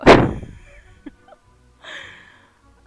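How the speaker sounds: loud airy laugh; sound: loud breathy laugh. Real, not acted. Laughing to the stream about waking late. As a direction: laugh at her own sleepiness. Admits just woke up.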